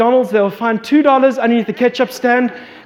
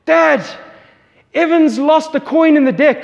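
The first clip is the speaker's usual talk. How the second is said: daughter tattling; 5 semitones higher than usual. Retold or imitated. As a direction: call it like a kid running in with news. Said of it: "she's like".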